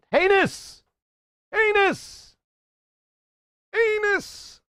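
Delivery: squealed falsetto heinous, very high; high shriek. Pretend. Streamer shrieking a silly word to chat in falsetto.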